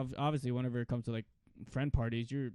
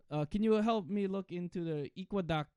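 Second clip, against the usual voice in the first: put-on dad's Filipino accent, pitched up; 5 semitones higher than usual. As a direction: imitate a Filipino dad asking for help. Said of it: "you said something in a Filipino accent".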